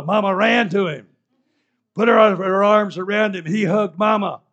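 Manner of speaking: loud, high, shouting joy; preacher shouting the joyful reunion; jubilant preaching. A narrator's reading. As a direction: celebrate the reunion. Joyful climax of story.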